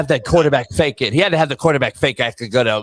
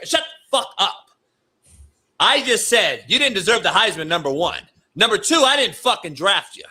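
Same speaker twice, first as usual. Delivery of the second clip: angry coach tirade; 4 semitones higher than usual. Acted. Acting as coach chewing out rookie.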